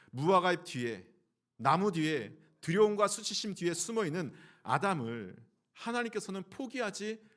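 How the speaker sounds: loud, building sermon climax; preaching at full force. Acted. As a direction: proclaim it to the congregation. (힘차게 설교하듯)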